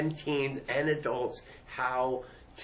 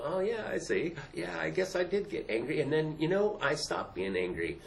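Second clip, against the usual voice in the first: put-on kid realizing; 4 semitones higher than usual. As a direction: play a student who just got it. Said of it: "watch 'em to go".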